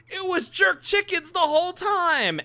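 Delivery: high mock-shocked fan yell; squealed, over-the-top astonishment; crowd member's shocked outburst. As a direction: cry out the big reveal from the stands. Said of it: "someone in the crowd is like".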